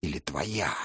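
soft, low menacing vampire. Acted. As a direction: speak as a cold, scornful vampire. Vampire voiced by narrator.

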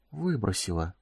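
soft stunned whisper. A narrator's reading. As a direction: breathe it out in shock. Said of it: "прошептал он".

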